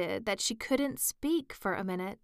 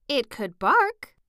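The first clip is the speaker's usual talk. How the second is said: excited rose; 6 semitones higher, 7 dB louder than usual. Acted. Rose answers Alice's question.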